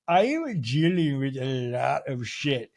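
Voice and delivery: hammed-up grave indignation, stretched hugely at the end; Meredith impression. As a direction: draw the words out like an affronted diva. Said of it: "Meredith goes".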